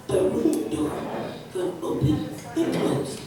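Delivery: low, voiceless whisper of doom; spooky prophecy whisper. Retold or imitated. Mother warns her daughter of ghosts, in a low whisper. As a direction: hush it like a ghost is listening.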